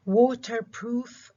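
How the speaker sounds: waterproof said slow with water stressed. Shown as a demonstration. Teacher models stress on water. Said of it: "الستريس على المقطع الأول من كلمة water".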